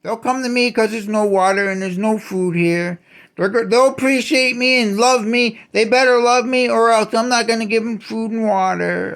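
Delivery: lightly voiced smug god; a touch of petty scheming in the voice; mock blackmailer. Voicing God as a blackmailer, lightly mocking. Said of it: "like, using blackmail".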